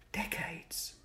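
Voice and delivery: high, shocked echo of Decades?; shocked question. Acted. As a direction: gasp out Decades? in disbelief. Boy shocked at the answer.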